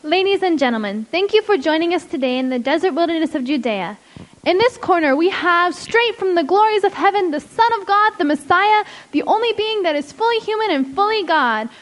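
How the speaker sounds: booming boxing announcer intro; ring announcer. Acted. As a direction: announce the champion to the crowd.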